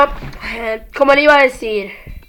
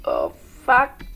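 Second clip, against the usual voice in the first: cursing under breath; 12 semitones lower, 9 dB quieter than usual. Real, not acted. Low groaning curse.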